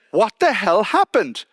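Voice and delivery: slow, pointed, a touch heated; mild mock anger. Wife confronting the doctor, mildly angry demand. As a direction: lean on each word, demanding.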